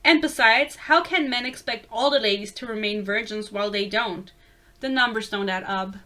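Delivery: lightly attempted Southern accent; hint of a put-on Southern accent. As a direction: read it with an amateur Southern twang. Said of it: "I don't know how southern people sound".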